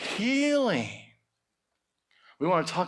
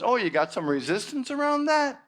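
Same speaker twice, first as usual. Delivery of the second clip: teasing universe; 3 semitones lower than usual. Acted. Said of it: "the energy of life says".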